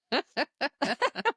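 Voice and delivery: witchy laugh rising up; cackling laugh. Real, not acted. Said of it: "I sound like a cackling witch".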